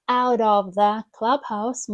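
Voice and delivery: "out of the clubhouse" run together as "ar-ovthe-clubhouse"; linked words. Shown as a demonstration. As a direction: glue "out of the clubhouse" into one word. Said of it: "ми ніби склеїмо в одне".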